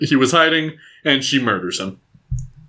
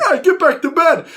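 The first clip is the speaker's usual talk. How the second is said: high bored guard yell; mock security guard. Security guard scolding Cecilia, high mock yell. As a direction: bark it like a tired guard. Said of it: "he's like".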